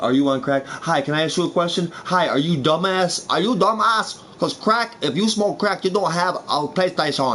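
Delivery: choppy, put-on Asian accent; mock Asian accent. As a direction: play it as a hammed-up Asian accent. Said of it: "I don't wanna talk Asian".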